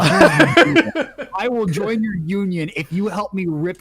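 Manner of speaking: loud slow threat. Retold or imitated. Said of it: "He's like".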